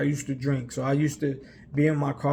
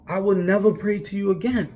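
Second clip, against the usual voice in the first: raised higher and louder, heated; bitter repeated vow, pitched up; angry vow; 5 semitones higher, 3 dB louder than usual. Retold or imitated. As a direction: throw the vow at God in frustration. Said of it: "you know".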